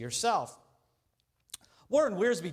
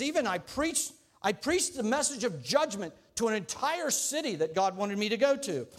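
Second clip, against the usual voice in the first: higher, eager bragging candidate; boastful Jonah; 4 semitones higher than usual. Acted. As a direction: brag about being called twice.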